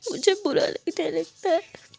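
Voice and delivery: rising into sobbing, voice breaking on the pain; crying confession of love; tearful plea. Acted. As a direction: beg forgiveness through tears. Muskan's tearful confession to Aadiya.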